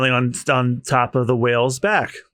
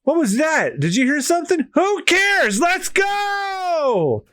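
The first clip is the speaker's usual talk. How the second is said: voiced crew panic; 12 semitones higher, slower than usual. Reading One Piece characters aloud.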